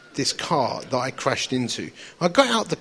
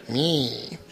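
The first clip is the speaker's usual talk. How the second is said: low, muttered inner grumble; grumbling inner voice; 5 semitones lower, 10 dB quieter, much slower than usual. Retold or imitated. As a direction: mutter it under your breath. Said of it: "voices started to come back in me".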